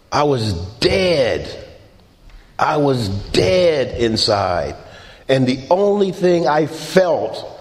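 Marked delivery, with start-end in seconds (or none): 0.1-1.7 heavy sadness. Real, not acted. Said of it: "repeated for emphasis". 2.6-4.8 heavy sadness. Real, not acted. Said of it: "repeated for emphasis".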